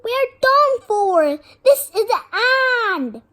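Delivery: loud high wail of doom; despairing moan. A narrator's reading. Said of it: "Ron moaned".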